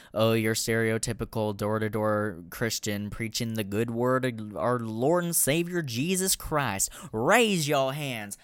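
hammed-up Southern Bible-belt preacher accent, slowing down on "Raise your hands"; over-the-top Southern evangelist accent rising into praise; bad Southern preacher. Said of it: "My Southern accent is fucking terrible".

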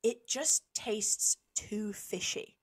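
slow whispered complaint; mock customer complaint. Retelling a fussy customer's complaint in a slow whisper. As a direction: breathe out the fussy complaint slowly. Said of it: "And he goes".

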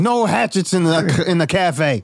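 high, slow firm rule; stern owner. Acted. Owner throws out the dwarf, high and firm. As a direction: lay down the law. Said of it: "He's like".

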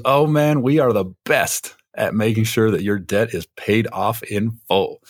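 mild upbeat deli owner; lightly voiced Doug. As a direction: sell it like a cheerful genie, a touch brighter. Doug voiced, granting a wish.

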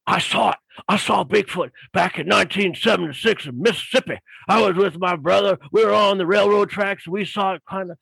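lightly acted biker launching into his sighting; excited biker witness. Biker tells author about seeing Bigfoot, imitated eagerness. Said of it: "he started going on".

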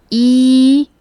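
E said with the mouth wide open. Shown as a demonstration. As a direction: say E, lips open, tongue forward. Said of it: "you pronounce E with your mouth open".

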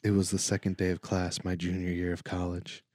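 flat, measured story reading; stiff reading aloud. Acted. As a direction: read it out like a storyteller. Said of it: "do the reading voice".

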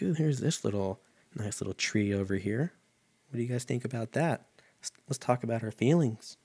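Bob Ross. Retold or imitated. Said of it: "I feel like Bob Ross right now".

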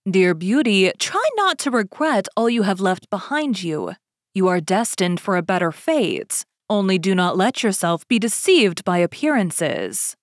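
a lightly voiced stately lady, reassuring. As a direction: speak with gentle authority.

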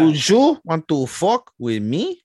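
slow, drawn-out mocking dare; slow drawn taunt. Challenger repeating the dare slowly and teasingly. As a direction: stretch each word out teasingly. Same line again, slower.

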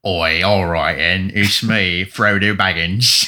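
hammed-up British hobbit voice; British accent Frodo. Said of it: "You get the British accent going".

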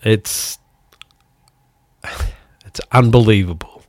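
real stunned whisper. Real, not acted. Telling listeners about the concert shooting, whispering in shock. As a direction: breathe it out, barely voiced, in disbelief.

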